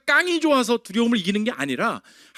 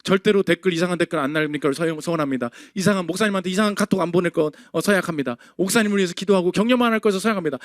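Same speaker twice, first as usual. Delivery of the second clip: lightly acted oath-taking; mock pledge recital; 5 semitones lower, faster than usual. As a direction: rattle off a mock vow, reading it out. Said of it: "서약서 받을 수 있잖아".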